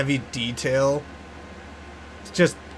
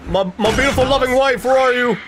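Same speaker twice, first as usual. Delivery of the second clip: mock calling out; 11 semitones higher, 4 dB louder than usual. Mock calls out for wife.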